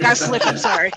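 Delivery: laughing apology. Real, not acted.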